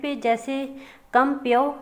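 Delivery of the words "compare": compare drawn out very slowly; slow rhyme demonstration; slow demo read. Shown as a demonstration. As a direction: stretch each syllable of compare for the class. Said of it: "despair, means same sounds आ रही हैं".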